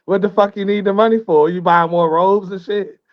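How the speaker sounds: amused disbelief, laugh breaking in; incredulous question with a laugh. Real, not acted. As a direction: ask it through real laughter, pitch lifting. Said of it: "I'm laughing 'cause I'm wondering".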